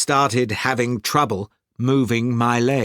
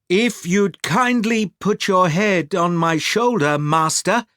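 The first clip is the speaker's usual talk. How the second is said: lightly voiced servant, a little higher; polite servant; 4 semitones higher than usual. Servant to his master in the sea, lightly voiced and polite. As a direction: offer help politely in a slightly raised voice.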